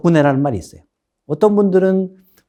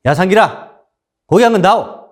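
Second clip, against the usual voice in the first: raised, commanding order to a lowly butcher; bossy nobleman; 5 semitones higher, 4 dB louder than usual. Retold or imitated. Haughty nobleman ordering meat from the butcher, commanding. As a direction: talk down to him like a haughty aristocrat. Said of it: "굉장히 권위의식이 강했던 양반".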